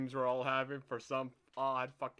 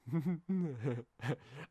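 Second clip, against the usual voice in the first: demonstrated sleep laugh. Shown as a demonstration. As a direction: imitate laughing in your sleep. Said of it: "and I did this".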